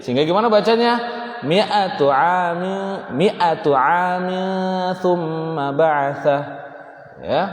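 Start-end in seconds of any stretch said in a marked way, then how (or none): 1.4-6.4 slow chanted MI'ATU with MI kept short; short MI recitation. Shown as a demonstration. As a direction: recite MI'ATU without stretching MI. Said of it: "Karena ada sifrun mustadir".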